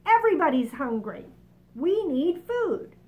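loud, pushy centipede demand; hungry centipede. Acted. Centipede sits up and demands food, loud and pushy. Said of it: "The centipede sat up".

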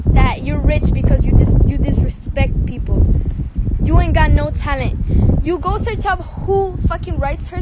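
loud furious shout; angry yelling. Real, not acted. Calling out the girl who said she's rich, a loud angry shout. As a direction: yell it right at her.

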